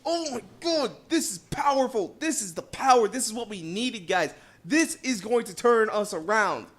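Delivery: high, excited mock hollering; excited gamer reliving a big prize pull; retold hype yell. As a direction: relive the moment you pulled the car. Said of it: "I was screaming, I was hollering, I was yelling".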